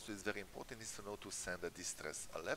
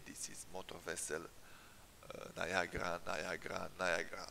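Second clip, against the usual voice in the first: mayday radio call. Shown as a demonstration. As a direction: demo distress call over the radio. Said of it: "I can send a distress alert, uh, something like that".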